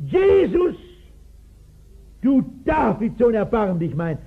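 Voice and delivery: blind beggar crying out to Jesus, then pleading. Retold or imitated. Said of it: "ruft er".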